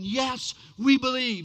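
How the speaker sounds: emphatic acted cheer; crowd roaring. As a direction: echo a roaring crowd's chant. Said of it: "crowd that was just roaring".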